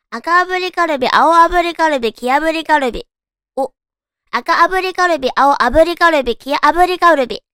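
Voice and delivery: high and punchy, each word hit; loud tongue twister. Shown as a demonstration. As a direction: belt out the twister. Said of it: "早口言葉にチャレンジ".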